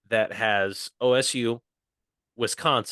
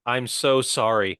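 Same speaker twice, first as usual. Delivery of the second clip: Canadian sorry; slower than usual. Shown as a demonstration.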